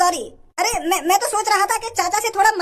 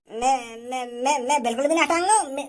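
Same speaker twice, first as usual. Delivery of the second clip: shaky refusal; 3 semitones lower, 4 dB quieter than usual. Acted. Scared old man refuses.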